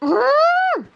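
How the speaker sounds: short staged cry of terror; acted shriek, falling off at the end; frightened scream. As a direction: scream as the ghost closes in. Victim cries out at the threat.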